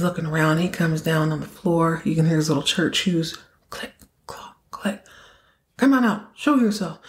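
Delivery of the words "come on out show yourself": calling out. Retold or imitated. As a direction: demand the hidden person show up. Chase calls into the dark.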